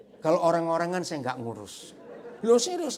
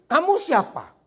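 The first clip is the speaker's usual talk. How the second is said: sharp shouted question, much higher and louder; angry snap; 13 semitones higher, 13 dB louder than usual. Retold or imitated. Batak man answering a stranger's phone call, angry shout. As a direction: bark it like a suspicious man caught off guard. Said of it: "dibentak orang Batak loh".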